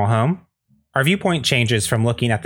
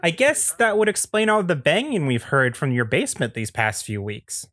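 high, nosy neighbor, dropping off at the end; pry suspiciously in a folksy high voice; Andy Daly; 6 semitones higher than usual. Acted. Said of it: "is played by Andy Daly".

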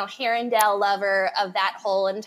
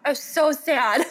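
mock wail; 6 semitones higher, 5 dB louder than usual. Repeats it louder and higher.

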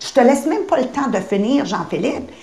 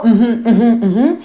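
absent nodding; 4 dB louder, much slower than usual. Retold or imitated. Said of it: "c'est même pas".

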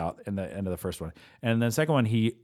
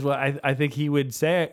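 director voice; 4 semitones higher than usual. Retold or imitated. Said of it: "he says".

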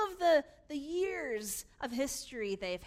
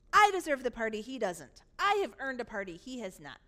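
loud claim, dropping on the dismissal; emphatic, aggrieved contrast; indignant verdict; 7 dB louder than usual. Acted. Brother contrasts himself with sibling.

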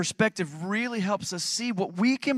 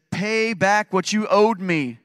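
loud, slow, raised-pitch demand; 4 semitones higher, 6 dB louder, much slower than usual. A narrator's reading. Servant confronts his debtor, loudly demanding. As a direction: press each word hard, drawn out. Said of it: "he demanded".

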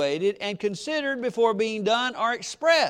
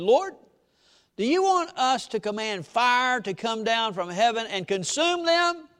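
a hint of hot-headed disciples, rising high; pleading for fire from heaven, worked up; lightly voiced angry disciple; 3 semitones higher than usual. James and John angry.

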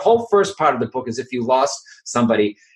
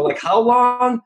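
much higher, disbelieving question; incredulous; 11 semitones higher, slower than usual. Retold or imitated. Author told to record the audiobook, mock incredulous. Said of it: "And I'm like".

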